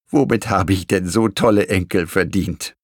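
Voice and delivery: touched grandmother, lightly acted; understated fond gratitude; tearful smile. A narrator's reading. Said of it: "lächelte Oma mit verweinten Augen".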